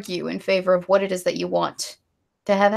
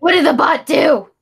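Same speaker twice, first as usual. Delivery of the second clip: loud, raised-pitch outburst; alarmed demand; 7 semitones higher, 7 dB louder than usual. Real, not acted. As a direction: call out demanding to know what happened. Demands to know bot's misdeed.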